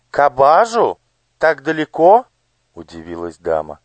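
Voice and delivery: high, bright-voiced curious lady; noble lady. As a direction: voice the gracious lady on horseback. (знатная дама, высоким голосом)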